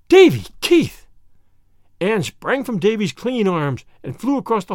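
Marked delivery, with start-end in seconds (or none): 0.1-1.1 shocked shout. A narrator's reading. Anne shocked, scolding.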